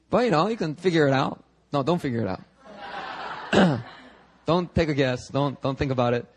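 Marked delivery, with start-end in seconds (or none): 1.7-3.8 laughing retraction. Real, not acted. Laughing takes it back.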